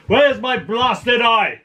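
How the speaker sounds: mock scream. Man on his knees screaming to nobody, mock scream. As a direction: cry out slowly in mock outrage. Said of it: "screaming to nobody".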